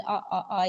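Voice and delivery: short, separate "आ, आ, आ" sounds; phonics letter sound. Shown as a demonstration. Teacher showing the sound of A for apple, phonics "आ" repeated. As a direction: sound out "आ" repeatedly as a bare vowel. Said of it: "ए के sound, जैसे A for apple".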